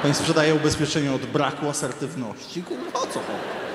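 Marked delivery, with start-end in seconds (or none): 2.6-3.7 very high, squeaky exasperated question; squeaky disbelief. Retold or imitated. (piskliwe, niedowierzające pytanie)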